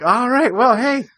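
high, chirpy get-me-out-of-here thanks; mock polite exit. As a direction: brightly back away from the crazy man. Excusing himself from the old man.

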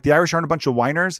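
quick mock-incredulous question, rising at the end; incredulous echo. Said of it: "I'm like".

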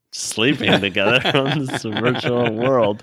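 cracking up while telling it; laughing. Real, not acted. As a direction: laugh through the punchline. Laughing at the couple joke.

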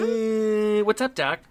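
high nasal cartoon rabbit; wisecracking cartoon bunny; Bugs Bunny impression. Shown as a demonstration. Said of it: "That's a good one".

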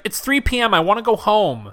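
light imitation of a Hispanic-accented maid. Maid at the motel door, put-on Hispanic accent. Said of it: "in a pretty stereotypical Hispanic accent".

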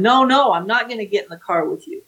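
hammed-up terrified pleading; staged panic. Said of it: "And she went".

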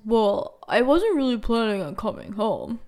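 lightly voiced offhand guy, barely changed from her own voice; his impersonation. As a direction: give just a hint of his casual brush-off. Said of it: "That's my best impersonation of his voice".

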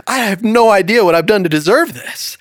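high-pitched woman's voice from a joke; delighted disbelief. Acted. Joke's woman to gorgeous man, delighted disbelief.

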